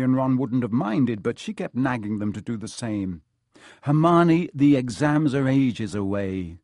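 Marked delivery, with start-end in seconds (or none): 3.8-6.6 calling out. Acted. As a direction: call her name to get attention. Ron calls out to Hermione.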